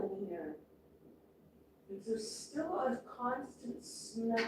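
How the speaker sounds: barely above a whisper; hushed. Real, not acted. Speaks very softly about haze.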